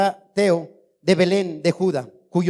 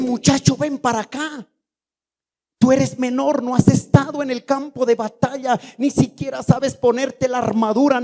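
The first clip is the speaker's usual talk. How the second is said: higher-pitched, incredulous dressing-down; acted scornful rebuke; 6 semitones higher than usual. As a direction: belittle the boy, imitating a doubting king. Saúl dismisses young David. (regaño incrédulo, imitando al rey)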